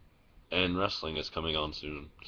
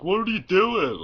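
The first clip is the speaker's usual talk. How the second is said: mom asking; 13 semitones higher, 7 dB louder than usual. Retold or imitated.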